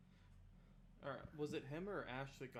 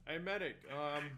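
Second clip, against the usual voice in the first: shouting back; 5 semitones higher, 15 dB louder than usual. Acted. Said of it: "he's gonna shout back".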